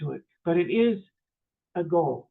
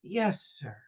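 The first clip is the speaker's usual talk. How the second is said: soft, calm imitated reply; quiet, courteous acceptance; kindly; 5 dB quieter than usual. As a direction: answer gently and unruffled. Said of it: "he says so kindly".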